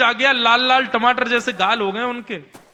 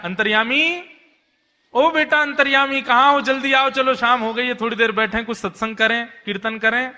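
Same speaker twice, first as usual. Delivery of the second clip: calling out; 3 semitones higher than usual. Retold or imitated. Trilochan calls servant loudly.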